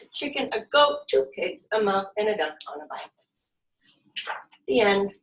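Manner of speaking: put-on lively storybook reading for kids; reading to children. A narrator's reading. Yoga teacher reading a picture book to her class, lively. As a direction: read it out bright and animated for little ones.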